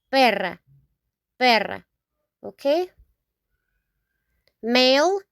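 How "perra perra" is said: perra with a rolled rr, PEH-rra; Spanish perra. Shown as a demonstration. Teacher modeling female dog, rolled r. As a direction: roll the rr in perra. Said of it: "we say".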